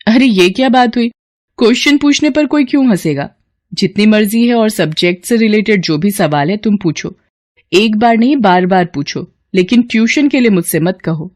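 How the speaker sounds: a daughter rushing out the door; young woman Kamya. Acted. Kamya reassures and refuses. (ऊँची आवाज़ में जल्दी-जल्दी, बेटी का अंदाज़)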